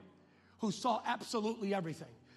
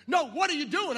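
exasperated; 6 semitones higher, 9 dB louder than usual. Retold or imitated. Wife escalating argument.

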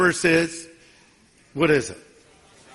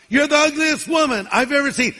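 parrot voice; 6 semitones higher than usual. Acted. Parrot insults woman.

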